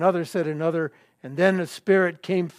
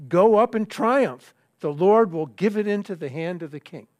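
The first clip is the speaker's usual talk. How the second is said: sarcasm. Acted. Prophet answering the king's question, mildly sarcastic. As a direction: read it with a touch of mock triumph. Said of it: "But the tone of voice is sarcasm".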